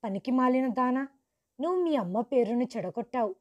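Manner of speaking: a hint of father's yell, quick; mild angry scolding. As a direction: scold the daughter, mildly heated. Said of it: "కోపంగా అరవటం మొదలుపెట్టాడు". (తండ్రి కోపంగా తిట్టటం, తేలికగా)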